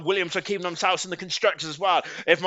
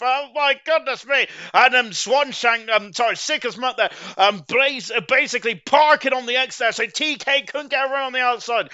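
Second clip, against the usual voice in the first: raised, lively race calling; excited commentary; 5 semitones higher, 3 dB louder than usual. Real, not acted. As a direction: get caught up in the fight. Battle for the lead.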